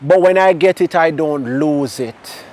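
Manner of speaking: line 2 drawn out slowly, "I don't lose it" stretched; slow, deliberate. Shown as a demonstration. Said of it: "I'm gonna say that again".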